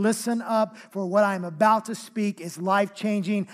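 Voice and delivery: firm, insistent emphasis; emphatic. Acted. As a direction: press it home like an urgent announcement. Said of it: "it's emphatic".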